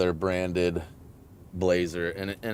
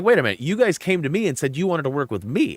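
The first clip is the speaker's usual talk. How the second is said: indignant protest; 5 semitones higher than usual. Retold or imitated. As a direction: object in mild disbelief. Protesting the sponsor's rejection.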